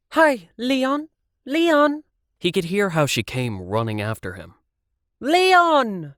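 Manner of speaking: high, loud calls after him; calling out. A narrator's reading. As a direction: shout his name, high and loud. Brenda calling out.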